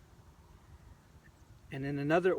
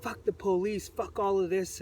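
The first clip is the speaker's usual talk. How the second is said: mock yelling; 5 semitones higher than usual. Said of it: "You know, just like".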